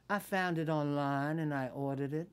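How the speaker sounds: re-enacted Southern speech; Southern accent. Actress telling co-star about the book, Southern accent. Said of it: "checked into the hotel with the accent".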